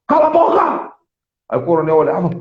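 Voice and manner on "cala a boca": sharp high yell of an attacker; retold shout. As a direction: bark it at the colonel, much higher. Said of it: "começaram a olhar pro coronel e dizer assim". (grito agudo de ataque)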